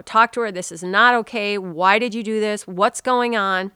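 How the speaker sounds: loud, firm telling-off of a dog; upset scolding. Retold or imitated. Owner scolding her dog for peeing on the bed, loud and upset. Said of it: "So I got very upset at Stella".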